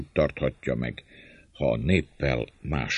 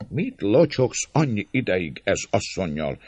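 higher-pitched rude interruption; rough interruption; 6 semitones higher than usual. A narrator's reading. Man by the gate cutting off the chat, rough. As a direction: cut in roughly and impatiently. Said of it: "durva hangon a kapu mellett állók egyike".

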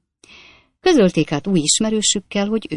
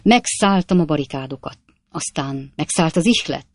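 brisk, choppy braggart voice, louder; boastful Jingle; 3 dB louder than usual. Acted. Stranger brushing off the coachman fight, boastful rattle.

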